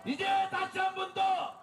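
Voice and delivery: shouted protest speech to a crowd; rally the crowd at full volume; roaring rallying speech. Real, not acted. Leads political rally.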